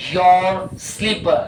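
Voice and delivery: "your" said as yor, not yo-var, slowly; slow careful "your". Shown as a demonstration. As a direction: stretch out "your slipper" as yor. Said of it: "योवर नहीं कर रहा हूं, योर कर रहा हूं।". ("your" को "योर" बोलना, धीरे-धीरे)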